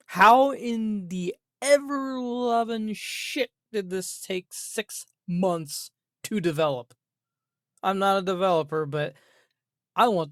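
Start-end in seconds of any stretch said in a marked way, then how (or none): 0.1-6.9 slow, disbelieving outrage; exasperated rant. Real, not acted. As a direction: drag it out in disbelief. Exasperated rant about dev time.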